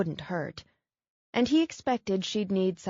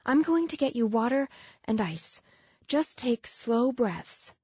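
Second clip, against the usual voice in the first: reassuring; 5 semitones higher than usual. Acted. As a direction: soothe him through it gently. Woman calming injured man.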